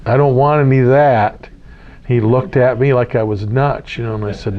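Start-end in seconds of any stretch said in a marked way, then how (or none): 0.0-1.5 light New Zealand accent, mocking the local; a joking hint of a Kiwi accent, teasing the friend. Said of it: "that is very accent".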